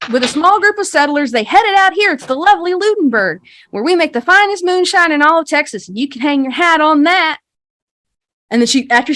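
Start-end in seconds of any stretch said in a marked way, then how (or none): 0.1-7.4 higher, louder, showy recital; tour guide spiel. Acted. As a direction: sell the town history like a practised guide. Game master voices guide's rehearsed spiel.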